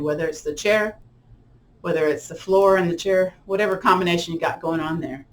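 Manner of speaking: calm guided-relaxation voice. Acted. Yoga teacher settling the class, calm guided relaxation. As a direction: ease the class into stillness.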